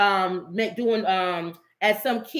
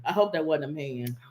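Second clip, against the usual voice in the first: hushed mock worry; 6 semitones lower, 5 dB quieter than usual. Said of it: "If you're a woman".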